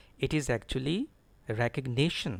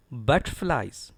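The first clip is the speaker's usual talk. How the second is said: butterflies slow, BUT stressed; slow model BUT-tflies; slower than usual. Shown as a demonstration. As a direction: lean on BUT in butterflies, reduce "ter". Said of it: "Stress is on B U T".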